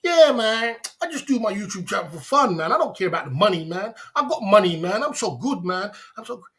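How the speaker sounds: lightly voiced smug rival, mocking; mocking impression of a troll. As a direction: parody a bragging rival who claims it's for fun. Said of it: "he wants to pretend like".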